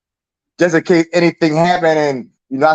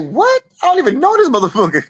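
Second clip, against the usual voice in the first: mock disbelief; 9 semitones higher than usual. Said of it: "I'm like".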